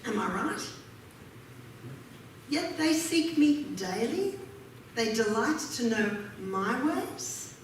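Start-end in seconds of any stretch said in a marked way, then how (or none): 2.5-7.5 measured, solemn reading of the verse; scripture reading. Acted. Preacher reads Isaiah aloud to the congregation, solemn. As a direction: read the prophet's words to the congregation.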